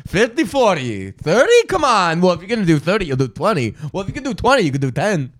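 a hint of a haggling bargainer; mock haggling. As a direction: bargain him down playfully.

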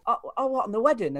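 high, confused oh-what; retold bemused reply; puzzled surprise. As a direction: caught off guard, thinking it's the wedding.

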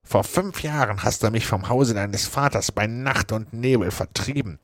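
half-bitter avenger settling scores; menacing Joe. Acted. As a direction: threaten him with old grudge. Joe threatens the doctor.

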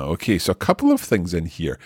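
ordinary talk

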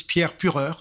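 "Pierre Pureur" said as a native French name, with French R's; correct French pronunciation. Shown as a demonstration. Guest shows the host his name, "Pierre Pureur" pronounced the French way. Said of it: "That's the correct pronunciation".

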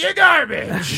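drawn-out goofy "garbage"; slow Sandler voice. Pretend. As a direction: stretch it out slowly, goofy. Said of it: "Adam Sandler caller continues".

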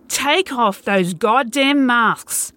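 hollering. Acted. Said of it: "I hollered".

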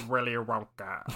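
languid, hushed British impression; Alan Rickman. Comic retelling a friend's roast bit, Alan Rickman impression. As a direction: drag out the name in a British accent. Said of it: "in the perfect Alan Rickman voice".

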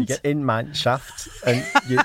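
hammed-up, wandering Yorkshire accent; bad Yorkshire accent. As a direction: attempt broad Yorkshire and miss. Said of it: "I was doing Yorkshire accent".

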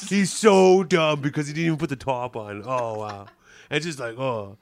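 lightly acted scornful griper; Roger impersonation. Roger sneering at his buddy's little show, lightly put-on gripe. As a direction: belittle your friend as you grumble. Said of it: "Beeching to his friend about the night".

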